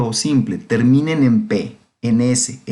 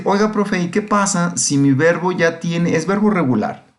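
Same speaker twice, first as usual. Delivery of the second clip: a lightly voiced student asking, pitched higher; curious student; 4 semitones higher than usual. Teacher voicing an imagined student's question, lightly raised pitch. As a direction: play the eager pupil raising a question. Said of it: "Me podrán decir".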